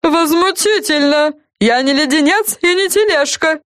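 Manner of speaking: high, offended outburst; indignant. A narrator's reading. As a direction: protest with wounded pride. Lollipop offended.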